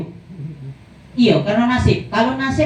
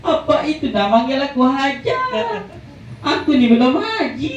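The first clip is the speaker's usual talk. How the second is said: mock tearful reply; 3 semitones higher than usual. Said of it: "uji dia aja itu ngomong".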